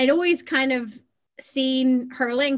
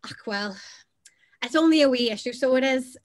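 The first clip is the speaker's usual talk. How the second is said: Northern Irish phrasing. Retold or imitated. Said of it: "I'll come out with something like".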